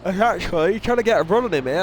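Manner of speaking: yawning mid-sentence. Real, not acted. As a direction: talk through a yawn. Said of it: "I had a bit of a yawn right there".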